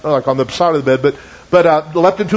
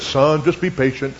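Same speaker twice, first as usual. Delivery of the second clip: professional preacher voice; 4 semitones lower than usual. Retold or imitated. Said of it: "he put on his professional voice".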